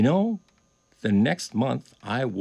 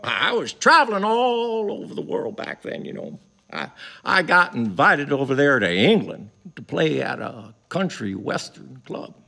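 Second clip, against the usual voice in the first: imitating Jimmy; 4 semitones higher than usual. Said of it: "he goes".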